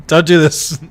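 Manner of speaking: loud laughing begging; laughing plea. Real, not acted. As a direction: beg through laughter. Pleading at chat, laughing.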